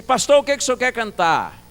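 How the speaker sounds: high, loud retold call; shouted question. Visitor asking deaf pastor for a hymn, loud shout. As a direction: project the question to a deaf listener.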